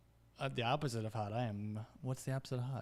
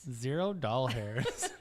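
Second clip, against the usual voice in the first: laughing; 3 dB louder, much slower than usual. Real, not acted. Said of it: "laughing repeat".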